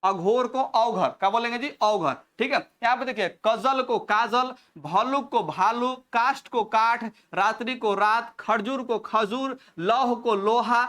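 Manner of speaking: slow dictation. Shown as a demonstration. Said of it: "तो पढ़ लीजिए".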